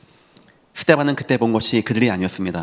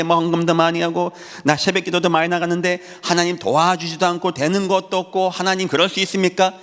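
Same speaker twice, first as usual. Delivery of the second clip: acting out a believer's grievance, pitched up in a steady run; mock complaint to God, higher voice; aggrieved complaint; 4 semitones higher than usual. Believer who prayed and gave offerings complains to God, aggrieved.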